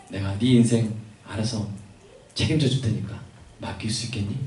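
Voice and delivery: lightly voiced God, quietly reassuring; gentle God voice. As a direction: ask softly, as an invitation to trust. God speaking gently to believer.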